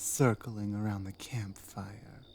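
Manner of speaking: hushed, breathy whisper close in. Acted. Captor whispering a story to the bound prisoner, whispered. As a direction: drop to a secret whisper.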